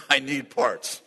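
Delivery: laughing it out slowly; a laughing plea to the Lord. Real, not acted. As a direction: chuckle through the big ask.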